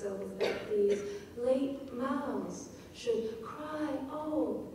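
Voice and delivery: souls that these late mouths should cry open, stretched slow with open lifted; slow stressed reading. Shown as a demonstration. Teacher reading the line to feel the energy release, slowly stressed. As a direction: draw each stress out slowly. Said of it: "after just those very unstressed".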